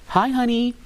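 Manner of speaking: high, chirpy imitation of mom; mom's phone greeting. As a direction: greet your kid brightly, imitating mom. Mom answering the phone in story.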